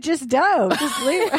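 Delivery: high, urgent warning; husband warning. Retold or imitated. Husband telling kids to leave mom alone, high. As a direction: wave the kids off fast. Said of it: "He said".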